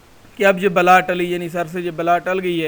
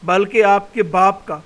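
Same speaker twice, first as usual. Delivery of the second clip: hidden voice taunting; 4 dB louder than usual. Acted. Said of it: "نامعلوم آواز آتی ہے".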